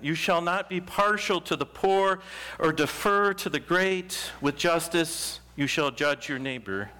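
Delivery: solemn, measured reading of the law; scripture reading. Acted. Pastor reading the law of holiness to the congregation, solemn. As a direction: proclaim each command with weight. Reads Leviticus aloud from pulpit.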